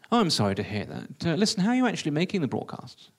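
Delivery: lightly voiced solicitous producer; a touch of lilting concern; Peter Baxter. Producer asks the newcomer about his broadcasts, lightly solicitous. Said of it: "Peter Baxter, the radio producer".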